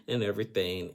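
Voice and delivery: lightly voiced flustered girlfriend; mock excuse-making girlfriend. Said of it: "she kept on saying".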